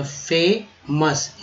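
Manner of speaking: फेमस drawn out very slowly; slow demo. Shown as a demonstration. Teacher sounding out फेमस slowly for learners. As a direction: stretch फेमस syllable by syllable. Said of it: "M O U S".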